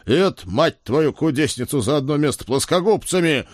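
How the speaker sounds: bellowing a colorful curse; roar. Acted. Father roaring at Ed, a mild mock roar. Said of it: "взревел я".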